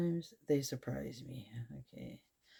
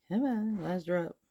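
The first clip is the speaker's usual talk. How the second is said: coaxing; 5 semitones higher, 3 dB louder than usual. Real, not acted. Urging the paint to drip.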